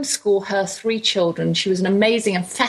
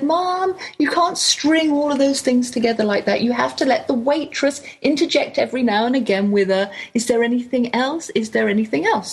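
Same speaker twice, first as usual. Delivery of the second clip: higher-pitched, imitated scolding kids; children telling Mom off; 5 semitones higher than usual. Children correct their mother's drive-in ordering, mock scolding. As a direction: start high on "Mom" and lecture her like an exasperated child. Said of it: "because they told me off".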